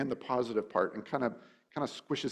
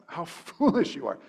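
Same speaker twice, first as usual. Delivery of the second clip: mock yell; 5 semitones higher, 5 dB louder than usual. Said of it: "he's yelling it at them".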